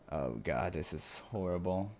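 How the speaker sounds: softly appalled "horrible"; quiet dismay. Real, not acted. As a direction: let "horrible" sink with dread. Reader repeats the line.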